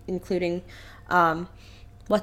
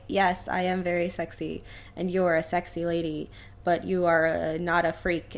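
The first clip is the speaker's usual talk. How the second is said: lower, softer mock Chuck; lightly voiced lunk brushing her off; dopey Chuck; 5 semitones lower, 5 dB quieter than usual. Chuck turning down the lady, lower mock voice. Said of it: "And Chuck is like".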